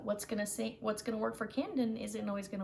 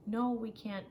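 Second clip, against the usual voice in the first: imitating a parent saying no. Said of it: "I would feel angry more often, like".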